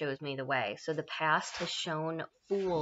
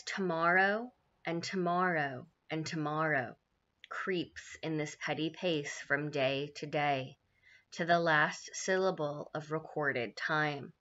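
slow, measured Shakespeare verse; slow mournful recital; soliloquy recitation; slower than usual. Acted. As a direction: weigh every word of the speech.

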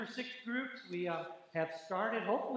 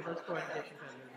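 laughing; 3 semitones lower, much faster than usual. Real, not acted. Laughing playful challenge.

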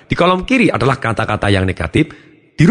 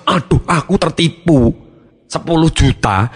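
mock lament; 4 semitones higher, slower than usual. Acts out a complaint about being cheated.

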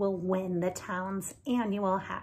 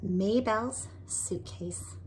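whisper. Shown as a demonstration. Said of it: "whispered title reveal".

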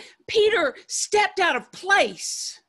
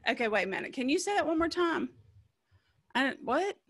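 soft, puzzled asking; confused disciples; 5 dB quieter, faster than usual. Retold or imitated. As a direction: quietly ask again, baffled. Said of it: "the disciples went".

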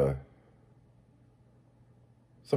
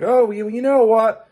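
mock customer caving; 9 semitones higher, 4 dB louder than usual.

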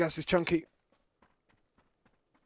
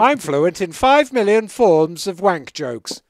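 slow, louder prissy droid impression; Star Wars robot voice; 6 semitones higher, 11 dB louder, slower than usual. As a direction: lightly play the protocol droid. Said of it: "a robot from Star Wars".

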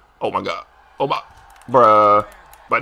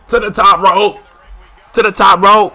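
higher, louder announcer-style call; building hype call; 8 semitones higher, 7 dB louder than usual. Real, not acted. Gamer calling the top rope climb, excited. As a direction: call it like a ringside hype man.

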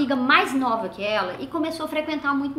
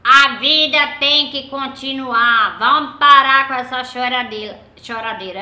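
firm scolding; 10 dB louder than usual. Retold or imitated. Mother ordering family to stop crying, loud and firm. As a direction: stop the crying, everyone, firmly. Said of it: "passava uma fortaleza pra gente".

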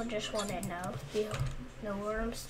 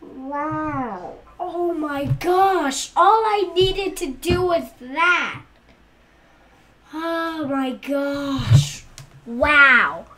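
amazed disbelief; 3 semitones higher, 6 dB louder, slower than usual. Real, not acted. Amazed after finally beating level.

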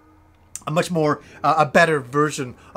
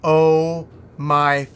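slow dismayed groan; 3 semitones lower, slower than usual. Retold or imitated. Realizing friend left.

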